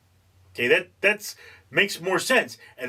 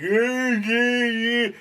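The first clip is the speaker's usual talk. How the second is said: eager agreeing; 8 semitones higher, much slower than usual. Retold or imitated. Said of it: "he's like".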